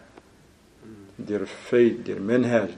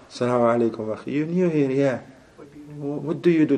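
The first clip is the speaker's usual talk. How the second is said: nosy masjid brother; 7 dB quieter than usual. Retold or imitated. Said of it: "they ask you questions".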